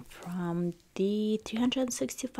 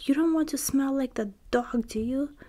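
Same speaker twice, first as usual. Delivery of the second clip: wicked stepmother; 5 semitones higher than usual. Acted. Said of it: "stepmother cried".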